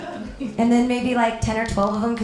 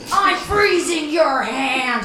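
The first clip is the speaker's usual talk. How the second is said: put-on child's threat; 3 semitones higher, 3 dB louder, much slower than usual. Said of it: "she points at my foot and goes".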